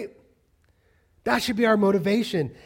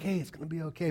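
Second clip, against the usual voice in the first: quick, casual imitated reassurance; chill reassurance; 6 dB quieter, faster than usual. Daughter imitating dad in a crisis, chill. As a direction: brush it off, easy and unbothered. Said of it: "you're really chill".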